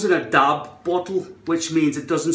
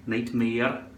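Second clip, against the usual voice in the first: low-pitched Scottish NIGHTMARE; Scottish try, low; 4 semitones lower, 4 dB quieter than usual. Shown as a demonstration. Vlogger testing own accent on a word, low Scottish "Nightmare".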